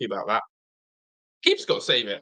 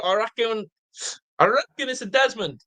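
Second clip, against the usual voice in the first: Alan Ford quote; 6 semitones higher than usual. Retold or imitated. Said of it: "Alan Ford, my lord".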